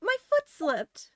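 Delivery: slow, high embarrassed excuse; sheepish girl explaining a slip; girl character voice. Acted. Girl explaining her fall to prosecutor, high sheepish voice.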